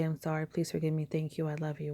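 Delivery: quick, soft prayer over incense; hushed Ho'oponopono phrase; soft mantra. Shown as a demonstration. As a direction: murmur it gently as a blessing. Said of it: "let the incense go up and say".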